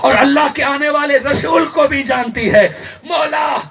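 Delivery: forceful sermon storytelling; impassioned preaching. Acted. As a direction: preach it out line by line. Preacher retells at full force.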